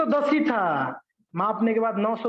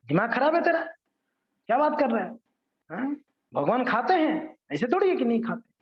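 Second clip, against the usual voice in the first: raised, high-pitched scolding protest; indignant retort; 5 semitones higher than usual. Retold or imitated. Pandits rebuke the Englishman for doubting God, indignant. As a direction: snap back at him, offended.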